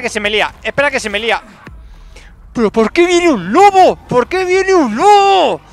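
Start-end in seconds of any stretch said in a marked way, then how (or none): 2.5-5.6 loud, high, drawn-out complaint; why now, stretch it in disbelief; exasperated protest. Real, not acted. A wolf joins the fight. (queja exasperada, alta y estirada)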